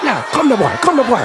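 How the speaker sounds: imitated Jamaican taunt; Jamaican accent. Bully readying for a fight, mock Jamaican taunt. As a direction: goad him in a put-on Jamaican accent. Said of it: "fresh Jamaican accent".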